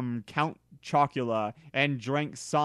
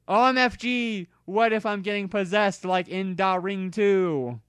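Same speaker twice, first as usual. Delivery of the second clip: much higher panicked cry; girl panicking to friends; 6 semitones higher than usual. Acted. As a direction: freak out about being possessed. Panicked about possession.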